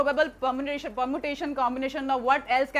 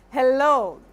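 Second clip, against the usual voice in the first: louder, tearful hello into the phone; choked-up hello; 7 dB louder than usual. Retold or imitated. Daughter bursting into tears on hearing mom. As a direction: voice cracking as she hears mom.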